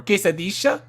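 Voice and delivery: "quesadilla" said as "kesa-dee-sha"; Argentinian sh. Shown as a demonstration. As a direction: double L in "quesadilla" turned to sh. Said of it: "the double L's are a sh".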